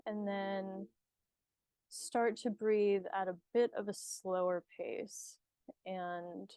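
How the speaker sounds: unhurried meditation guide with long pauses; guided meditation. Acted. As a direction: ease the listener into calm, leaving space between phrases.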